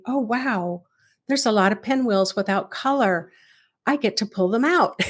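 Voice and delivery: mildly acted pleased surprise, ending in a laugh; excited. Meditation teacher models the allowed reaction to colorless pinwheels, mildly excited. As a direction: play a light, delighted discovery. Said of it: "get excited and say".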